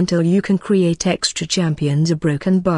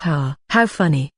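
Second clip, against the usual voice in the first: flat fake laugh, dry and sarcastic; mock the prank with a hollow laugh; deadpan sarcastic ha ha. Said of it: "I say in a sarcastic voice".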